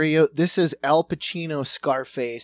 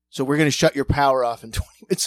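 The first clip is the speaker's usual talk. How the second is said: put-on Cuban accent; 2 semitones lower, 5 dB louder, much faster than usual. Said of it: "ham steak Cuban accent".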